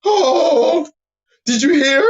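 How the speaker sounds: high, excited gossiping voice; hammed-up gossip, pitch jumping up; mock gossip. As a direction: play the breathless gossip spreading news. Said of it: "everybody, uh, feels Jerry Springer".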